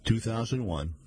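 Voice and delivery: even, measured reading voice with spoken quote marks; story narration. A narrator's reading. Reader narrating a mystery story to listeners, steady storytelling. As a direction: read it like an audiobook narrator.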